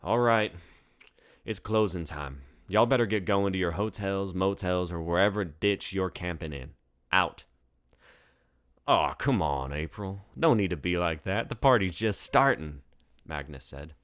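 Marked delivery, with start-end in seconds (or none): 0.0-7.4 firm bartender, a bit louder, ordering them out; April calling closing time. Acted. April telling the tourists to leave, firm and louder. 8.9-12.8 louder, whiny coaxing protest; pleading drunk tourist. Acted. Magnus begging April to keep the bar open, whiny.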